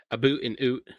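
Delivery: hammed-up Canadian vowels; mock Canadian accent. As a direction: tease with a cartoon Canadian accent. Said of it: "the way I say about".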